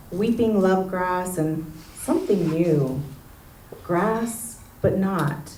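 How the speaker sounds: measured poem delivery, pausing between phrases; poetry reading. Acted. Local poet reading a neighborhood poem to an audience, poetry reading. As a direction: read it as a poem, weighing each image. Reads own poem aloud.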